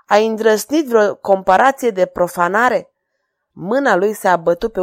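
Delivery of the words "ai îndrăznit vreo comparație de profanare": angry. Acted. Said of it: "rosti regele plin de mânie".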